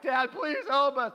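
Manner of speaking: whiny mock-scared begging; imitated anxious pleading. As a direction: plead slowly like frightened kids calling Dad.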